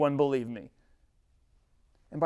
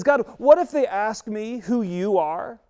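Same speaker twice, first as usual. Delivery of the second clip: anxious Moses; 7 semitones higher, 6 dB louder than usual. Acted. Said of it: "And then he says".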